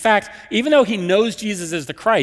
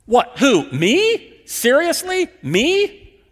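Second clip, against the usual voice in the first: high, incredulous what-me squeak; startled disbelief; 8 semitones higher, much slower than usual. Retold or imitated. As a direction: play it like you can't believe you were picked. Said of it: "I know what my reaction would have been".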